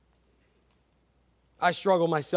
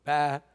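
mock sheep bleat. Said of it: "Sheep are stupid".

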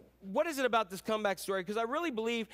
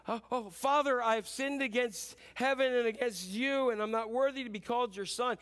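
pleading son; 4 semitones higher than usual. Retold or imitated. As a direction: beg to be taken back as a servant. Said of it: "he's like".

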